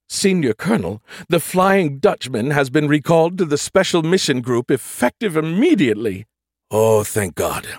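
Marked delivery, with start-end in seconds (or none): 0.1-6.3 higher, prim ship computer voice. A narrator's reading. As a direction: voice the ship's computer lady. Nagatha reports.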